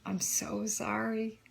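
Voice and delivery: slow, whispered retelling of a tearful prayer; retold tearful prayer. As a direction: half-whisper the prayer as if crying. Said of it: "bawling my eyes out and saying".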